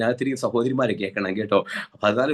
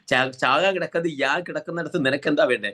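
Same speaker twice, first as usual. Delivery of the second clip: irritated retort; 5 semitones higher than usual. Retold or imitated. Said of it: "ലോകത്തോട് തന്നെ ദേഷ്യം വന്നിരിക്കുക".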